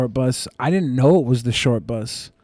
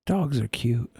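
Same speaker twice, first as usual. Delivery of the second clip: whisper; 3 semitones lower, 9 dB quieter, slower than usual. Real, not acted. Sudden soft aside.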